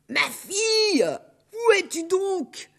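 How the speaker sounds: high ogress call, searching; worried ogress call. Acted. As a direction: call again, getting uneasy. L'ogresse appelle encore. (l'ogresse appelle, aiguë et inquiète)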